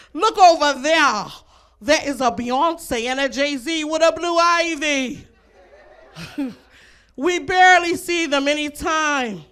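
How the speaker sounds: slow, loud Australian wildlife-host voice; lightly done Australian croc-hunter marvel, slowed; Steve Irwin impression. To the audience as Steve Irwin, a mild Australian nature-host voice. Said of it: "That was my Steve Irwin impression".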